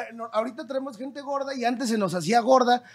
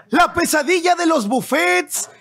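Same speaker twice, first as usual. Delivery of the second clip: lucha libre announcer; 2 semitones higher than usual. Pretend. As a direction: call the fighters in like a wrestling show. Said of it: "los voy a presentar como pinche anunciador de lucha libre".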